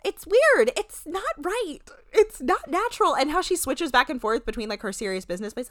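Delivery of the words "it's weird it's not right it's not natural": put-on high babyish voice all the way through; mock the baby voice while scorning it; squeaky mock baby voice. Shown as a demonstration. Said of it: "talking like this".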